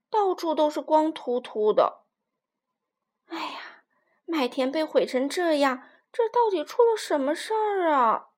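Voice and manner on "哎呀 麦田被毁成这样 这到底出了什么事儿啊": puzzled question. Acted. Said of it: "卡梅拉不解地问".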